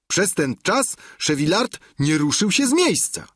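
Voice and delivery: plain reading voice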